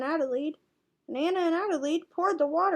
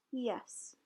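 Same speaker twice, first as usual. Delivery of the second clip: a soft smiling yes; 3 semitones lower, 10 dB quieter than usual. A narrator's reading. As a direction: say it with a quiet smile.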